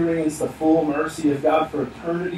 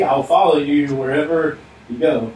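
louder, mock-baffled insistence; insistent repeat; 4 dB louder than usual. Would-be follower to Jesus who seems not to hear, insistent. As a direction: play a man repeating himself, not heard.

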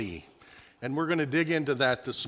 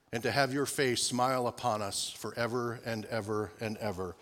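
prayer. Acted. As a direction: pray it reverently, winding down. Leads the congregation in prayer.

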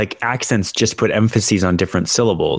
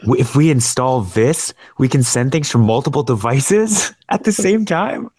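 mock amazement; 4 semitones higher than usual. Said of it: "And so they're like".

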